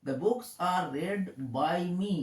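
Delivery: very slow, every word given room; slow dictation. Shown as a demonstration. Teacher reading the passive sentence slowly to children. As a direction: dictate it slowly for young learners. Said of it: "ছোট্ট বন্ধুরা দেখো".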